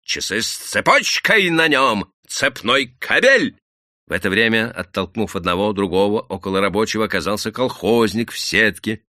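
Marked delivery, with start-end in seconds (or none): 0.0-3.6 loud, high, drawn-out jeers; голоса из толпы. A narrator's reading. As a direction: heckle from the crowd. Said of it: "голоса". (крики толпы)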